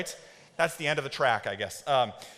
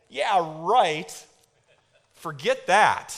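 slow sarcastic brush-off; dismissive; 4 dB louder, much slower than usual. Acted. Some of you answering the verse, sarcastic dismissal. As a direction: scoff at the idea, drawing it out. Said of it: "Some of you are like".

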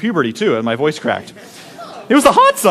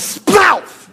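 imitated splash; 11 semitones higher than usual. Shown as a demonstration. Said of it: "I think the actual sound was".

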